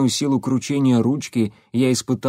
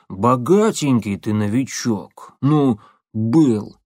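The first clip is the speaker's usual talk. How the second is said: gruff guard; slower than usual. Acted. Guard mocks the new zombie.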